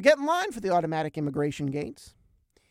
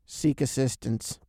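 flat, low, slow machine announcement; a lightly voiced robotic gate; 5 semitones lower, slower than usual. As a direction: read it like an automated kiosk. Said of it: "and it goes".

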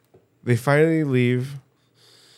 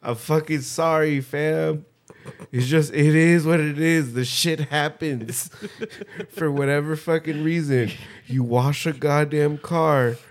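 mock Creator voice; 5 semitones higher than usual. Voicing the Creator apologizing.

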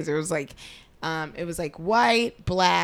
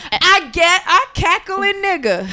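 laughing; 9 semitones higher, 7 dB louder than usual. Real, not acted. Laughing reaction to display name.

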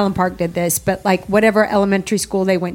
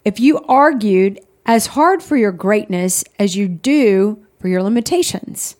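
reading aloud. Acted. Reads devotional aloud.

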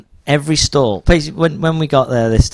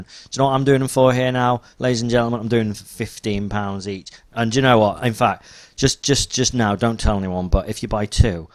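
salesman pitch. Retold or imitated. Acting salesman's pitch to crowd.

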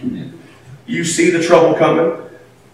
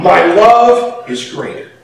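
God's thought; slower than usual. Retold or imitated. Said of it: "but he thought".

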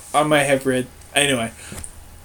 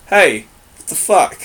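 mock Roman speech; 5 dB louder than usual. Shown as a demonstration. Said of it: "this is how I'd say it".

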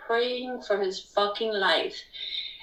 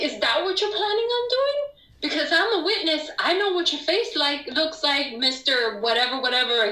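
much higher, fast, half crying and half laughing; frantic tearful-laugh challenge; 6 semitones higher than usual. Retold or imitated. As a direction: confront the officer in a rush, voice cracking. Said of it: "I'm like".

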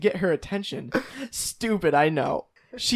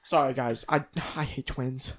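lower, softer comedown after a rant; subdued apology; 4 semitones lower, 6 dB quieter than usual. Pretend. Host apologising to the guys after outburst, subdued. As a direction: apologise quietly, as if embarrassed.

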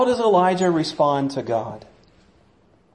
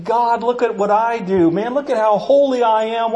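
mock-pious, pitched higher, a touch preening; hammed-up holier-than-thou plea; smug self-righteous prayer; 5 semitones higher than usual. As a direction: brag to God about your holiness. Self-righteous believer praying.

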